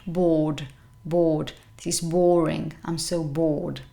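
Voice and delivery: bored with a long O; bored as BAWD, vowel held and pitch low; long O sound. Shown as a demonstration. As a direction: stretch the vowel in bored, R silent. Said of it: "this is a long O sound".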